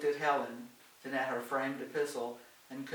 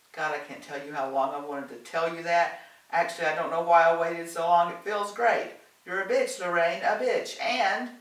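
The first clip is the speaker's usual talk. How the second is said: loud, high, gleeful tirade; ranting; 4 semitones higher, 10 dB louder than usual. A narrator's reading. Helen finally tells Lorraine off, ranting. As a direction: let it all out in a raised, exulting rant. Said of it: "her ranting house guest".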